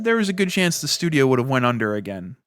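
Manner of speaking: mock nervous boss owning up to missing the mark; nervous boss Pete. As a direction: deliver the bad numbers like a flustered manager with a big sigh. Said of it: "Here comes big old Pete".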